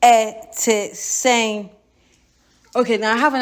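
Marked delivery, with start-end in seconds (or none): 0.0-1.7 "Ete seng" with a short falling vowel; Twi greeting. Shown as a demonstration. Teacher shows a Ghanaian how to say "Ete seng". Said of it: "Say it again".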